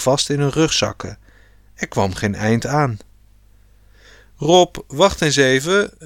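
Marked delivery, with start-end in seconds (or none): 4.4-5.9 higher, mildly raised call; understated storybook shout. A narrator's reading. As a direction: call lightly to someone ahead to stop. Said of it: "riep pa".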